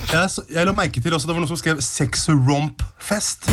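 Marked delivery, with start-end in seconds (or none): 1.8-3.5 very slow quote with a rising end; slow, drawn-out quote. Retold or imitated. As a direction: spell the compound out slowly, part by part. Quoting an odd headline word slowly. (sakte, utdratt sitat)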